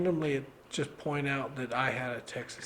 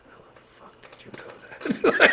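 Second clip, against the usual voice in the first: whispered in disbelief; retold baffled whisper. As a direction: breathe it out, stunned and unvoiced. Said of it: "I'm like".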